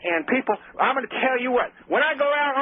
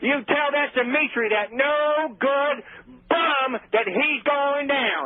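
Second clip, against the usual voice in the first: slow drawn-out threat; 3 semitones higher, slower than usual. Acted. Threatening rival on radio.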